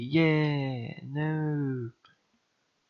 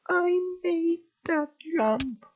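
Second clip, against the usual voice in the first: high, loud, slow mock-confident voice; 6 dB louder, slower than usual. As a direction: ham up the smug self. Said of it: "I was like".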